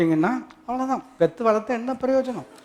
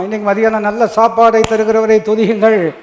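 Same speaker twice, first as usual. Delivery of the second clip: loud call to praise; preaching exhortation; 6 dB louder than usual. Real, not acted. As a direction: project it in a sustained ringing line. Preacher calls congregation to praise.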